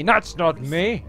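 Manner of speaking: loud outraged denial; indignant shout. Real, not acted. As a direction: protest it, slow and loud. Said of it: "I don't sound like that".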